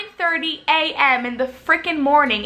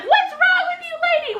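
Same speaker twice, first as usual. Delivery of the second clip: high-pitched mock scream; screaming passenger. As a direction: imitate an outraged passenger shrieking. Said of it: "some people are screaming at us".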